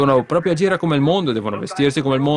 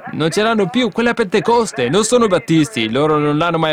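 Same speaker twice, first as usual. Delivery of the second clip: rising fervour; 4 semitones higher than usual. Real, not acted.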